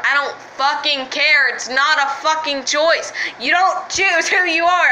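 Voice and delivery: frustrated outburst at people calling it a choice; getting mad. Real, not acted. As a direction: let real anger push the pitch up. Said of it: "I'm getting mad again".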